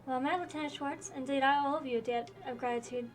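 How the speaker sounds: lightly voiced game characters in a dueling scene; reading game dialogue aloud. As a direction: read each character's line with mild drama.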